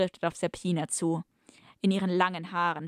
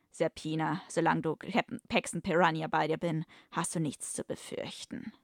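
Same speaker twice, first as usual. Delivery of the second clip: reassuring hero. Acted. Hero comforting the rescued woman, understated reassurance. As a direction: reassure her, easing off at the end.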